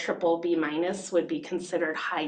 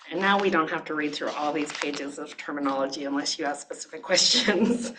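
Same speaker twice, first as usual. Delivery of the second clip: rapid, over-caffeinated rattle; quick-fire run-through ending in a laugh; talking too fast. Real, not acted. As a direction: rush through it like you've had too much coffee. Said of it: "How much coffee have you had today".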